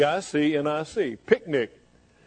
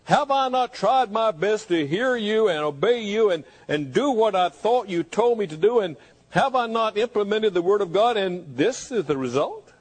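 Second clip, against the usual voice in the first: raised pitch, pleading and challenging; questioning God; 4 semitones higher than usual. Acted. Believer questioning God after trying his best, anguished questioning. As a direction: plead your case, baffled at God. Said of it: "where you just question God".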